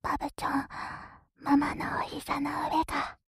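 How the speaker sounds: put-on whispered cooing mommy baby talk. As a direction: coo it like talking to a baby. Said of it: "赤ちゃんごっこ".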